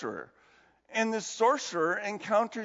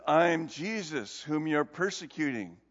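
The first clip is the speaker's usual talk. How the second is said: calm divine answer; 4 semitones lower than usual. Retold or imitated. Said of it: "the voice says".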